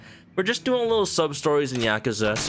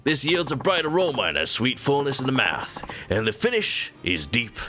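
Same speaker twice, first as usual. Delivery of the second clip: ad read in a fake southern Japanese accent; hammed-up southern Japanese accent; mock southern Japanese accent. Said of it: "gotta break out my southern Japanese accent".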